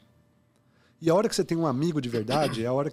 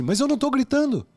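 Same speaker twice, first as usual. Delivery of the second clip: loud, high indignant protest, pitched way up; imitating a yelling denial; 11 semitones higher, 6 dB louder than usual. An angry person denies yelling, loud and high-pitched. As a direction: play the angry person who swears they are calm. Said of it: "que a pessoa tá lá gritando, esbravejando".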